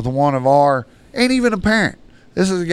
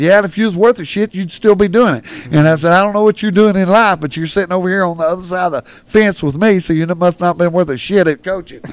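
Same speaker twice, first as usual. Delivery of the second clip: raised put-down; 4 semitones higher, 5 dB louder than usual. Retold or imitated. Coach retells his put-down.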